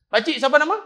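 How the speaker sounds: put-on high, loud, cheeky kid voice; cheeky child. Boy in slippers boldly asking the old imam his name, high and cheeky. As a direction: pipe up like a bold little boy.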